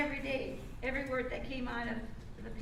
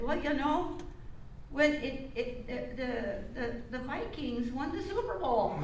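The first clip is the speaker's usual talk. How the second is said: excited Ole; 2 semitones higher, 4 dB louder than usual. Acted. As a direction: shout the punchline with joy. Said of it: "and Ole said".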